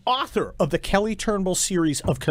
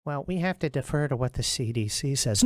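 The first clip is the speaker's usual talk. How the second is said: mock whiny excuse; 5 semitones lower, 6 dB quieter than usual. Mocking politicians' excuse.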